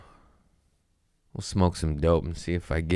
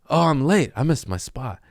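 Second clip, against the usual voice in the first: mock panic; 9 semitones higher than usual. Realizing he missed his spot.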